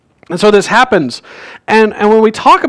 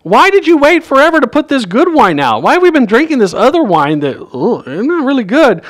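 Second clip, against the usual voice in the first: mock scolding; 6 semitones higher than usual. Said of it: "he scolds him".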